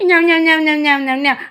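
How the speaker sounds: quick nyam-nyam eating imitation; playful munching noise. Owner feeding the cat, playfully imitating munching. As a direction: chomp playfully in a high pet-talk voice.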